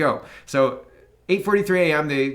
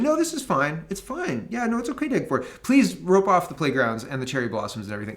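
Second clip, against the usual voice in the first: mock complacent; 2 semitones higher than usual. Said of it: "we're sitting here saying".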